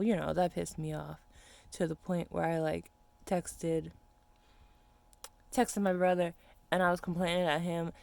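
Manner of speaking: normal talking voice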